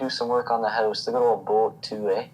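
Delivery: hammed-up Canadian lumberjack; casual Canadian-accent impression. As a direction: play a folksy Canadian woodsman. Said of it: "I love your Canadian accent".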